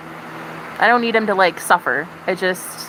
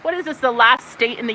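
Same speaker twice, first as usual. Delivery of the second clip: exasperated rant; 5 semitones higher, 4 dB louder than usual. Real, not acted. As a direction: demand it, fed up. Ranting at Nebraska over weed.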